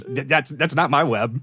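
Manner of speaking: slow, fumbling mock excuse; stammering denial. A flustered Spider-Man stumbling through his defence in court. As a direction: stall for time like a caught kid.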